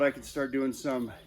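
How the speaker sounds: out of breath, words cut short; gasping mid-sentence, out of air; catching breath midword. Real, not acted. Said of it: "lost my breath".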